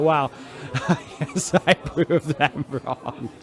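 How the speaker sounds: slow bitter chuckle through the words; captain laughing at himself; rueful laugh. Acted. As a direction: laugh at your own failure. Bitter self-mocking laugh.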